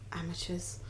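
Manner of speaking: very soft, voiceless aside of pretend scorn; mock-disdainful whisper. Co-host told to vamp, whispering mock disdain. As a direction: sigh it out under the breath.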